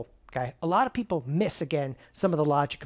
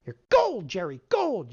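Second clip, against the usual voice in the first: excited cheer; 2 semitones higher, slower than usual. Acted. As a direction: sell the win to Jerry. Excited payoff cheer to student.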